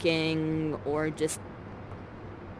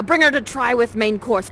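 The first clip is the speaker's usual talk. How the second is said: called order; 2 semitones higher, 6 dB louder than usual. Acted. Acted ship's master giving order.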